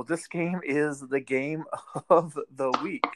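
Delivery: mock hype, drawn out with a laugh; slowly oversell it, tongue in cheek; sarcastic big-game billing, stretched out. Real, not acted. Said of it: "I was being sarcastic there".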